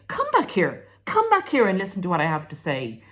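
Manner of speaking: high, loud call after someone. Retold or imitated. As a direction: call them back, insistent. Parent calling after leaving partner.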